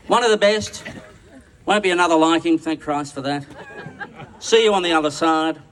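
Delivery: loud, ringing toast to the whole room. Real, not acted. Emcee calling the room to drink to Don. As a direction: call it out so the back row raises a glass.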